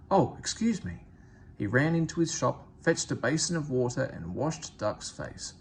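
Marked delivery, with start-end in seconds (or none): 0.1-1.1 startled apology, a little higher; abashed. A narrator's reading. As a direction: blurt it out, caught off guard. Barber suddenly abashed.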